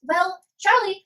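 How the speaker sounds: mock British. Student answering her classmate in a put-on British voice. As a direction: stretch out a hammed-up British hello. Mock posh reply to Charlie.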